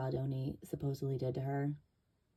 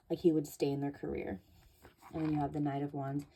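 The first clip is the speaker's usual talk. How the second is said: breathless, winded voice; out of breath. Real, not acted. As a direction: talk while catching your breath. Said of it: "like, out of breath".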